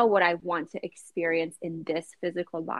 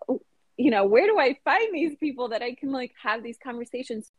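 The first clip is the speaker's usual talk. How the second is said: higher-pitched, wondering self-quote; searching plea; 5 semitones higher than usual. Retold or imitated. Lonely reader asking where her kind of people are, pleading. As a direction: voice your old puzzled question, pitched up.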